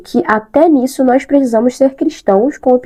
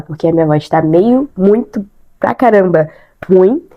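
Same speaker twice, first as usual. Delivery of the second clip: stuffy congested voice; talking through a blocked nose. Real, not acted. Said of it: "o meu nariz tá entupido".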